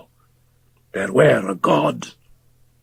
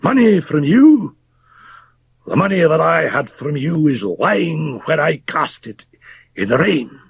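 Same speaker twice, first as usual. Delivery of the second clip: high, outraged cry; indignant raised cry; cried out; 10 semitones higher than usual. Acted. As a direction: spit the word back in disgust. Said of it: "cried Fettes".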